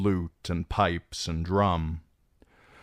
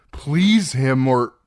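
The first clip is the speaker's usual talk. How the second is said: strained plea; 7 semitones higher, 9 dB louder, slower than usual. Acted. Theon pleading.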